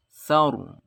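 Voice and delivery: Saur with a heavy, thick r. Shown as a demonstration.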